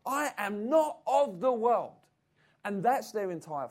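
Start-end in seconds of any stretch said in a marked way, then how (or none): 0.1-2.0 slow, louder, self-righteous parody; mock aloof Christian. Preacher mimicking separatist believers, slow and mock-pious. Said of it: "Or others say".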